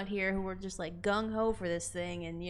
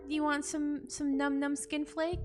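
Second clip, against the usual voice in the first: put-on baby talk; 5 semitones higher than usual. Offers creature skin flakes.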